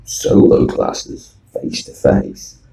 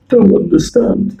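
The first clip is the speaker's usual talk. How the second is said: put-on Chinese accent; 4 dB louder than usual. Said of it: "with a very hard Chinese accent".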